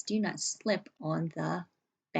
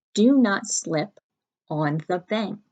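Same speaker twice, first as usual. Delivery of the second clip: louder, slow dictation; emphatic dictation; 7 dB louder than usual. Shown as a demonstration. Teacher repeating the sentence firmly for the class. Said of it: "So our sentence".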